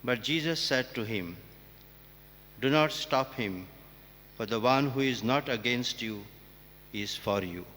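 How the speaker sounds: measured, proclaiming church reading voice; formal Gospel reading. Acted. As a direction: read it out solemnly to the congregation.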